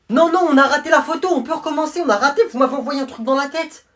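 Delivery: high, loud flustered protest; upset protest. Acted. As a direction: plead to redo it, rattled. Prisoner protests ruined photo.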